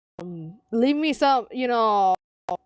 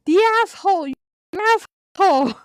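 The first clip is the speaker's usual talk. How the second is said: blunt retort; 8 semitones higher, 5 dB louder, much faster than usual. Acted.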